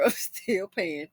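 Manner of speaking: slow, laughing repeat; laughing at herself. Shown as a demonstration. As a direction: chuckle it out slowly at yourself.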